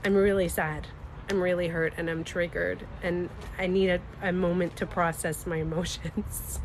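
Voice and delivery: composed and gently honest; calmed down. Retold or imitated. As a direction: state your feelings evenly after cooling off. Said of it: "I calm down".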